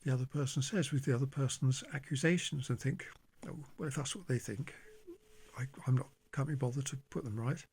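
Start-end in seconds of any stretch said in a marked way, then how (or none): 3.5-7.6 softly voiced meek resignation; a quiet, mildly meek giving-in to oneself. Speaker recalling silently accepting another person's accusations, meek. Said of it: "I would just meekly go along".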